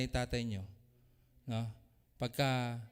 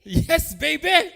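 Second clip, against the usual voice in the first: 1 drawn-out sweet reply; 9 semitones higher, 11 dB louder, much slower than usual. Retold or imitated. Spouse answering sweetly.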